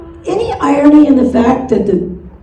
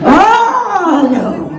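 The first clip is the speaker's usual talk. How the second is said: put-on dismayed little kid; 3 semitones higher than usual. Little Bobby hits another rule breaker, hammed-up wail of dismay. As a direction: groan it long in mock childish despair. Child dismayed by irregular word.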